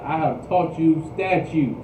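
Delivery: "I have taught you statutes" drawn out slowly; slow, weighty stress through "taught you statutes"; emphatic quote. Retold or imitated. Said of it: "putting emphasis on it".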